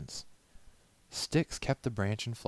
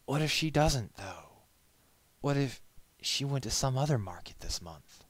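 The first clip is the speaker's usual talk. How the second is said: anxious, higher and louder questions; nervous worry; 8 semitones higher, 4 dB louder than usual. A narrator's reading. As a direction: fret that she won't come. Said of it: "tapped his hooves nervously".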